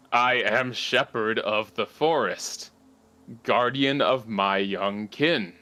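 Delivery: lightly voiced, slow tree guardian; a hint of a solemn forest shepherd, measured pace; creaking tree creature. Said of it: "it turns to creak at her".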